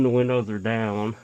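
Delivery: talking through a face mask; muffled voice behind a mask. Real, not acted. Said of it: "If I sound muffled, I'm sorry, I have a mask on".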